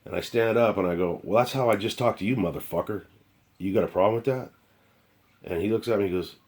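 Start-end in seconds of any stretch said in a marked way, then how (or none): 1.2-4.5 angry comeback. Retold or imitated. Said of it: "I'm mad".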